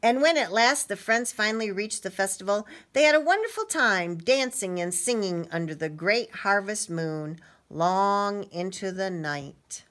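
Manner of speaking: animated storybook ending; story reading. A narrator's reading. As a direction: wind down the tale for children, slowing at the close. Reads story to children.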